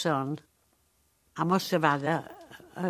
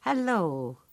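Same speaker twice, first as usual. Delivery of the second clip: mock hello; 3 semitones higher than usual. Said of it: "he starts on the hello game again".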